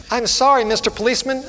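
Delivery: high-pitched, upset child voice, acted; high mock-tearful plea; crying little girl. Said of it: "And she was crying".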